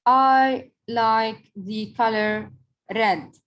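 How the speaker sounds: slow, deliberate example sentence; slow teacher demo of a statement; slow example read. Shown as a demonstration. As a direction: read it out slowly and clearly, word by word. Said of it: "In this sentence, I'm telling a statement".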